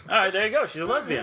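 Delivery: high, laughing concession. Real, not acted. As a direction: give in while laughing.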